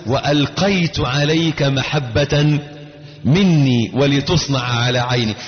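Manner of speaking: slow, measured recitation; Quran recitation. Acted. Preacher reciting God's words to Moses, slow recitation. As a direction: recite it reverently, slowly.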